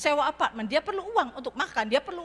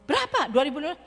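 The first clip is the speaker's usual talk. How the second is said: surprised friend; much faster than usual. Retold or imitated. Friend asked for big loan.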